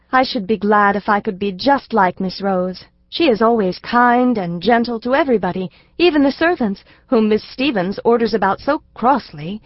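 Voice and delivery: a hint of a sweet little girl admiring her teacher; little girl Elsie. Elsie to her father, a lightly voiced earnest little girl.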